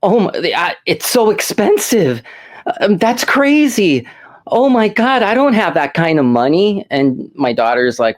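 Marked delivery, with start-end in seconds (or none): 0.0-6.8 higher, flustered imitation of a panicking girl; retold girl panicking at the register, lightly hammed-up; mock panic. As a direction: act out her panic at the price, pitched up. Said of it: "she panics and she says".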